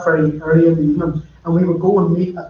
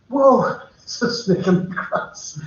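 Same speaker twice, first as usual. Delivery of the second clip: startled whoa; 4 semitones higher, slower than usual. Retold or imitated. Self-quote on spotting snake.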